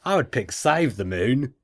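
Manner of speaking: put-on amateur Australian accent, lilting line endings. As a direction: read it in a put-on Aussie accent. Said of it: "I'll go back to English now".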